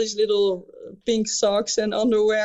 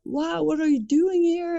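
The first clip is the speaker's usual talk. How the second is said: imitating drunk guy; 8 semitones higher than usual. Drunk guy greeting, voiced high.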